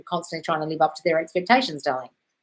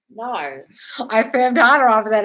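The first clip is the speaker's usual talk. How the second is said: mock viewer voice; 5 semitones higher, 8 dB louder, slower than usual. Reading a viewer's comment aloud.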